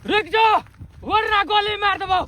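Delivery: high-pitched yell at fugitives; threatening shout. Acted. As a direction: call out a threat from behind. Pursuer threatens fleeing couple. (ऊँची आवाज़ में धमकी)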